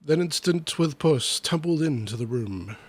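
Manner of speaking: lively, rhythmic storybook reading; verse recitation. Acted. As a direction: read the rhyming tale with bounce. Reads comic verse aloud.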